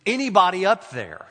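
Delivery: a stranded hiker's cry for help; screaming for help. A narrator's reading. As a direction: call out desperately upward. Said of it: "screams it".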